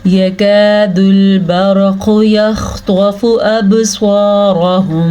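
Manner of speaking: slow melodic tajweed recitation; Quran recitation. Shown as a demonstration. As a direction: recite each word slowly and clearly. Teacher recites the verse.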